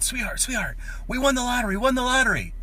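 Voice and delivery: high, loud squeal of big news; excited scream. Acted. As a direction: scream it as a hammed-up thrilled wife. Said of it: "screams at her husband".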